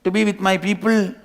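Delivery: high, loud panicked protest; mock screaming. Cub to the lion, screaming that he is a sheep. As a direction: scream no at him like a terrified lamb. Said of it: "starts screaming".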